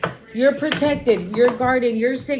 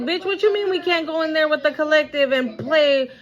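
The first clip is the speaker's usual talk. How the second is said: mad dog voiced; 3 semitones higher than usual. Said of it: "The dog even mad".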